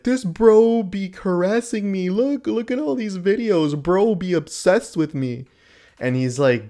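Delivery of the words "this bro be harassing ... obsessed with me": high, slow whiny mock voice of her complaining; mocking impression. Mocking Sniper Wolf's harassment claim in a high, slow whiny voice. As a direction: mimic her whining, pitched way up and dragged out. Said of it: "So then she's like".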